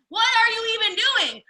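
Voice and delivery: slow, high, loud demand; exasperated shout. Real, not acted. Coach scolding absent leaders, exasperated slow shout. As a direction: call them out, really exasperated.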